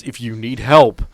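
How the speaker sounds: ordinary talk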